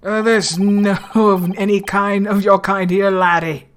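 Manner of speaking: rough stab at Scottish; bad Scottish accent. Governor turns the student away, poor Scottish accent. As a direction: attempt a Scottish brush-off. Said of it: "I can't do Scottish".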